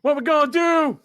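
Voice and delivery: loud, high hype call; wrestler promo voice. Retold or imitated. Imitating wrestler catchphrase.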